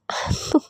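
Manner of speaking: hushed giggle through the pain; quiet, unvoiced chuckle; soft breathy laugh. Partner hugged too hard, soft laugh. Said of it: "तो आप हंस क्यों रहे हो".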